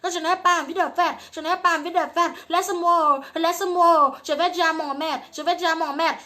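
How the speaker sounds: high, loud fake protest; mock prudish girl. Mocking a girl faking shyness in the bedroom, high and loud. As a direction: ham up the shy refusal. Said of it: "tu vas aller dire ça".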